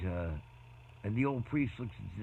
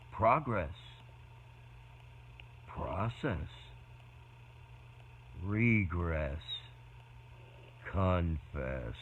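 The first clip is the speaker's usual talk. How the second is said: slow measured poem reading; slow spaced-out poem reading; poem recital; 3 semitones lower, 4 dB quieter, much slower than usual. Shown as a demonstration. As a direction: recite each word with long pauses. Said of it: "I wrote a poem".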